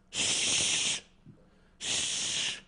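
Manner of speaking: breathy hush to quiet her; shushing. Retold or imitated. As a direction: hush the child without a sound of voice. Hushing the kid during game.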